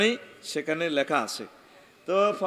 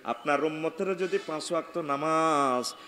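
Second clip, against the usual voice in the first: running sing-song, long final vowel; intoned sermon recitation; 3 semitones lower than usual. Acted. Jibril promising the Prophet five daily meetings, intoned reply.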